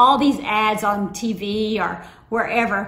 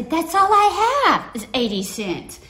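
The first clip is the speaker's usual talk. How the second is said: higher, whiny protest; protesting little sister; 7 semitones higher, 3 dB louder than usual. Retold or imitated. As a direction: complain like a kid.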